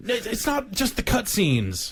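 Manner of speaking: high, slow breakup voice; put-on company voice. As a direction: let them down slowly. Tecmo skit reply.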